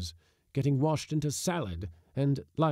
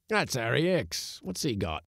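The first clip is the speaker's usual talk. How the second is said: cabman's voice. Acted. Loafer at cab shelter.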